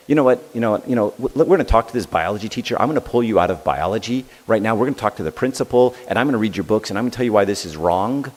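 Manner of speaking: hammed-up angry father, a bit fast; mock angry dad. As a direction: parent threatening to storm the school, mock-angry and quick. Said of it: "if I had come back at him and said".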